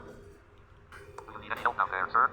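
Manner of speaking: slow, stretched-out call down the ravine; slow drawn-out call. Acted. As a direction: drag the words out like calling from afar. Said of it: "Don't yell".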